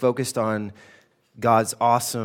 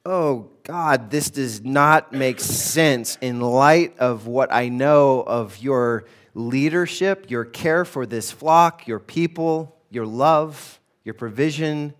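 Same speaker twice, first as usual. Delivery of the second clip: slow, earnest mock prayer; pleading psalmist; slower than usual. Pastor voicing the psalmist questioning God, slow and earnest. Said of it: "he's like".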